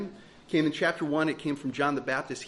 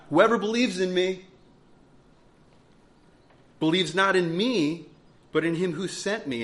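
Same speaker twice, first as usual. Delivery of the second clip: louder, urgent call; crying out; 2 semitones higher, 5 dB louder than usual. Acted. Preacher voicing Jesus crying out to the crowd, louder. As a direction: proclaim it as a plea to the crowd. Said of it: "crying out".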